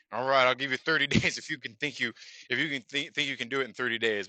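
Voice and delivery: lightly mocking imitation of a condescending boss; a touch of amused condescension in a retold reply. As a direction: grudgingly humour them, with a scoffing little laugh. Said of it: "you know, condescendingly".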